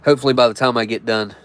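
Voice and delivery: stuffy nose, clogged up. Real, not acted. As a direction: speak with a blocked nose. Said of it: "I'm clogged up".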